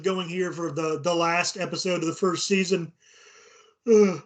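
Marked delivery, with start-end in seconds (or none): 3.9-4.2 yawn. Real, not acted. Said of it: "I'm yawning already".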